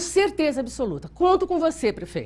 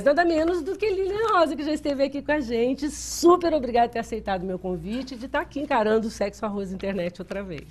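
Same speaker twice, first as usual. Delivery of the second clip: hoarse, honking voice from a cold; goose voice. Real, not acted. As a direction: talk through a sick, honking throat. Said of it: "Vocês estão gostando da minha voz de ganso?".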